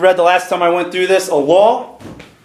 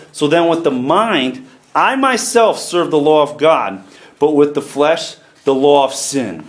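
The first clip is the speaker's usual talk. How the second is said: measured, deliberate Bible reading; scripture reading; 4 semitones lower than usual. Real, not acted. Preacher reading Romans seven to the church, measured scripture reading. Reads scripture aloud to congregation.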